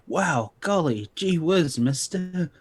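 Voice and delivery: lightly voiced awestruck kid, slow start; gee-whiz kid, gushing; wholesome 1950s kid. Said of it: "I have to make another composure roll to not go".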